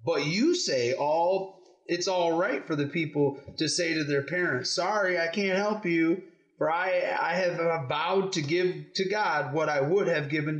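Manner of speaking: measured scripture read-aloud; story reading to children. Acted. Parent reading the Pharisees' question to kids, measured storytelling. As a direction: read it out clearly, phrase by phrase.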